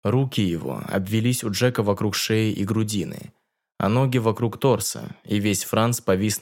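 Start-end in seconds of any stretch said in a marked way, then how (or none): none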